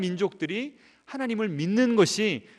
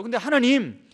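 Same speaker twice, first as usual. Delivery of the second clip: arguing with God. Acted. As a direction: lightly act out taking God to task. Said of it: "막 따지는 겁니다".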